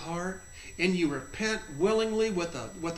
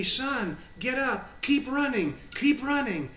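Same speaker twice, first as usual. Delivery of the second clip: lightly voiced urging, pitched higher; a higher, earnest call to get moving; 5 semitones higher than usual. Jesus tells fallen son to keep running, urging.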